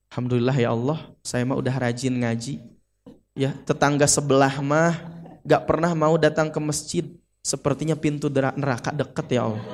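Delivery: low, soft self-satisfied murmured prayer; smug prayer. Acted. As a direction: quietly thank God while feeling superior. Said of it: "Jadi ada potensi sombong". (doa pelan bernada sombong)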